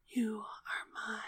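hushed possessive whisper. A narrator's reading. Lover at the narrator's neck after a bite, whispered. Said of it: "then whispered".

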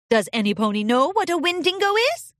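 lightly voiced kindly princess; a hint of a friendly royal teacher; gentle princess voice. A narrator's reading. Narrator voices Celestia.

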